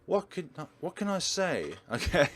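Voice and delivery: high, embarrassed giggly stammer; flustered laugh. Acted. Daughter caught out by Dad, laughing nervously.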